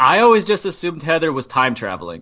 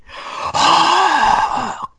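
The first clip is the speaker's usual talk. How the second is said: mock gasp; 12 semitones higher, 3 dB louder than usual. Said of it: "Pete the Prius".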